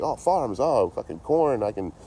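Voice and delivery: mock awe at farms. City kid hamming up delight at farms. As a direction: gush slowly over the corn. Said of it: "So I'm like".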